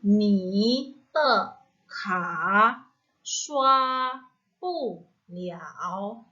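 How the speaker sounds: each syllable spoken slowly with its own tone; ni te ka shua pu liao, syllable by syllable with clear tones; careful tones. Shown as a demonstration. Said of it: "perhatikan juga nadanya ya". (baca nadanya satu per satu dengan jelas)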